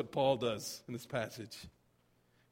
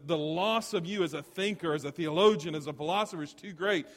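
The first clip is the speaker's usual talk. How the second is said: raised, urgent sermon voice; impassioned preaching; 5 semitones higher, 7 dB louder than usual. Acted. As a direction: preach it with insistent energy. Preacher dramatizes friends' plea to Schweitzer.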